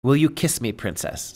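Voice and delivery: a dying prince's weak question, fading to a breath on "princess?"; feeble plea. Acted. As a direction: let the voice give out on "princess?". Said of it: "said he feebly".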